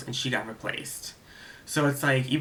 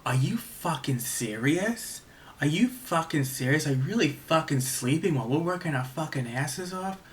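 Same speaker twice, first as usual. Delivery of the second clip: retold screaming; 3 semitones higher than usual. Director scolding the dozing spotlight operator from below, mock yell. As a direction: imitate an irate director with pitch swoops. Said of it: "He was screaming, he was like".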